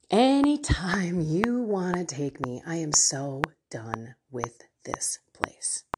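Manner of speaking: a hint of being completely done; fed-up sigh. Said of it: "Many times I have said".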